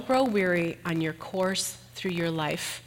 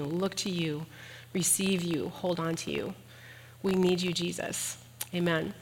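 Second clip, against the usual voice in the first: prayer. Acted. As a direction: pray gently over the congregation. Leads closing prayer.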